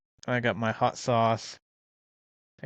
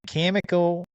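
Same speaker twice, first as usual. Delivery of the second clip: mock English accent; 5 semitones higher, 3 dB louder than usual. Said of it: "That sounds Australian".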